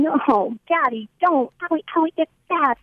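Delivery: high pleading child's cry, mimicked; imitating child screaming. Mother retelling her daughter's night screams, high and pleading. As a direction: voice the little girl begging her daddy. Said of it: "bed screaming".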